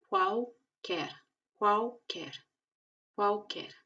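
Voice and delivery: "qualquer" as kwaw-ker; L before consonant as U. Shown as a demonstration. Teacher drills "qualquer" three times. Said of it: "se pronuncia como una U".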